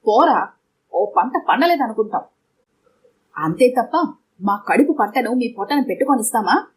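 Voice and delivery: understated acted roar of a furious mother. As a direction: bark the dismissal, then press on defiant. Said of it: "Saraswati గర్జించింది".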